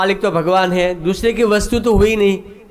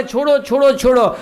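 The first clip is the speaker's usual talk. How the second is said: higher-pitched mock cry for release; 6 semitones higher than usual. Neighbours rush in as master beats servant, mock urgent cry. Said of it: "नौकर चिल्लाने लगा".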